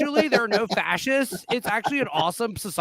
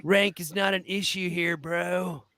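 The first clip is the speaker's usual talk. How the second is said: put-on laid-back California surfer accent; casual California bro accent; slower than usual. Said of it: "California accent".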